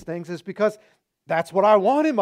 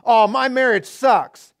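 mock whine; 7 dB louder than usual. Shown as a demonstration. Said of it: "just put this phrase on the end".

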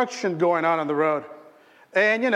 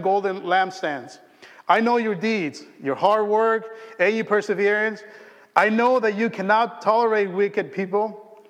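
measured scripture read, slightly raised. Acted. Pastor reading Revelation to the congregation, solemn. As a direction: read the letter to the church with weight.

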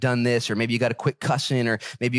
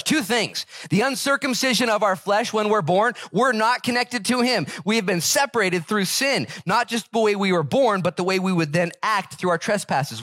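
higher, fervent preacher voice lifting the verse; preaching at full force; 10 semitones higher than usual. Acted. Pastor to his congregation, fervent full-force preaching. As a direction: preach it out to the whole church.

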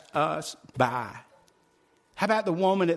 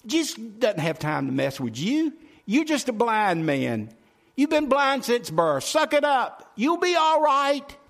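raised, scolding voice climbing higher and louder; fussing crowd; 6 semitones higher, 4 dB louder than usual. Retold or imitated. Crowd fusses at blind man, mock scolding. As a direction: imitate an impatient crowd, building to a loud rebuke. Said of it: "the crowd begins to fuss at him".

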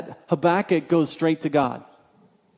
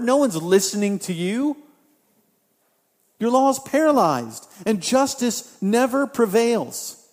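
Habakkuk's complaint; 4 semitones higher than usual. Acted. Preacher voicing Habakkuk, raised pleading complaint to God. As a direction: cry out to God as a wronged prophet.

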